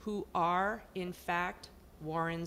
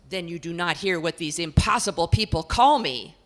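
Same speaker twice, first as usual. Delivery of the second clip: portrait lady; 10 dB louder than usual. Acted. Portrait complains to the house about her people. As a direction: complain at length, put-upon.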